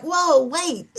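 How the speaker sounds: lightly acted disbelief; taken-aback protest. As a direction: halt someone who cut you off. Acts out interrupted caller protesting.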